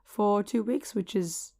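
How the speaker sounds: lost voice, hoarse and rough. Real, not acted. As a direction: speak with a worn-out voice. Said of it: "partially lost my voice".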